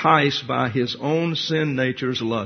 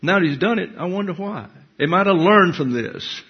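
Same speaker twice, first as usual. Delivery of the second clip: higher, plaintive wondering voice; mock wondering believer; 4 semitones higher than usual. Preacher mimicking a troubled believer, higher mock wondering. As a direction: put on a puzzled, pleading lilt. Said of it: "ask the next question".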